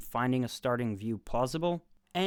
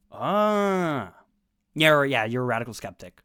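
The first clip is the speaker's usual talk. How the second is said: mock smug philosopher; 7 dB louder than usual. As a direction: lightly parody a condescending expert. Mocking the philosopher's reasoning.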